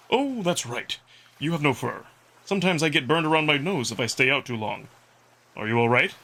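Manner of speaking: Amicus the wolf, gently concerned; caring wolf Amicus. Acted. Wolf Amicus worried about the narrator's sunburn, caring role voice. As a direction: check on him kindly, rising at the end.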